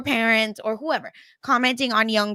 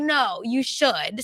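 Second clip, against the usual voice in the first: slow insisting mom; much slower than usual. Retold or imitated. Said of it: "my mom's like".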